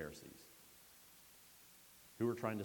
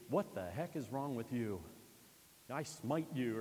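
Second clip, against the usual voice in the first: mock angry father; 3 semitones higher, 4 dB louder than usual. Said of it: "we expect it to be".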